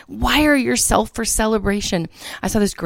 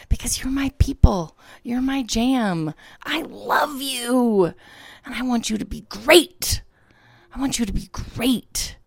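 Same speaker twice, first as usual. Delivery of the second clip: heartfelt affection; 4 semitones higher than usual. Real, not acted. Host tells listeners she loves them, heartfelt and hushed. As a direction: tell your people you love them, straining with feeling.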